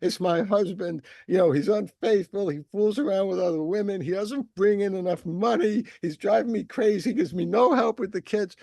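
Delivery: mock-upset wife pouring out her grievances; upset wife complaining. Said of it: "she's very upset and crying".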